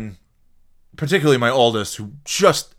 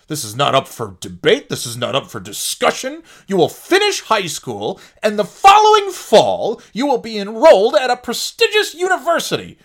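firm, a bit louder, climbing high toward the end; stern parent rant; 5 semitones higher, 4 dB louder than usual. Retold or imitated. The old strict parent telling the oldest child college is non-negotiable, stern and rising. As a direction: lay down the law to the child. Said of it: "the old me would be like".

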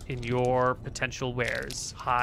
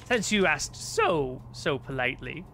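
grand sorcerer. Acted. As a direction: savour the grand plan, slowing as it builds. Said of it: "and then she goes".

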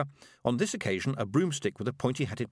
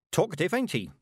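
put-on higher, brisk old witch; a stern old witch voiced higher than the narration; 9 semitones higher than usual. A narrator's reading. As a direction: voice a dry, sharp old witch.

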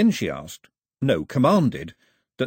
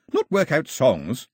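complaining; 5 semitones higher, 3 dB louder, slower than usual. Acted. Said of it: "Pilu complained".

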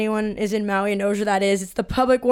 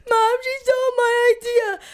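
high, whining tattle to mom; whiny tattling teen; 11 semitones higher than usual. Retold or imitated. Teen tattling to her mom, high and whiny. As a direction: complain to mom like a bratty kid.

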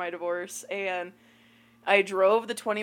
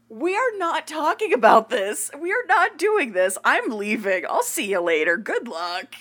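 loud, high and forceful; emphatic shout; 5 semitones higher, 6 dB louder than usual. Retold or imitated. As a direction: shut it down, loud and firm. Retold exit from date.

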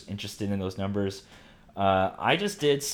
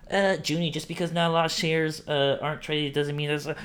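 high put-on objecting listener voice; mock know-it-all listener; 7 semitones higher than usual. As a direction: play the smug listener again, higher. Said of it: "be like".

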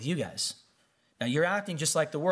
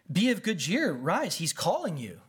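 sing-song fake cheer, pitch swooping up and down; hammed-up change of tune; suddenly friendly mockery; 3 semitones higher than usual. Crowd now encouraging the blind man, sing-song fake cheer. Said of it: "they all changed their tune".

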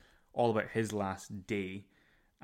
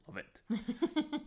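high squeal. Acted. Gushing about the film.

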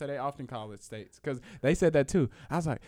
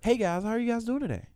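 African accent; 8 semitones higher than usual. Shown as a demonstration. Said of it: "can you do an American accent?".

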